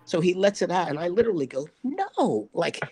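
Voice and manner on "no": high, desperate cry while waving both hands; retold panic, pitched far up; frantic no. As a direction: stop him letting the rope out.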